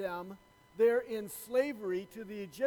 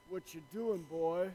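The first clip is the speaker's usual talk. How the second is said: put-on old farmer; 4 semitones lower than usual. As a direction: challenge a trespasser in an imagined farmer's voice. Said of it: "You know, something like that. I could only imagine it".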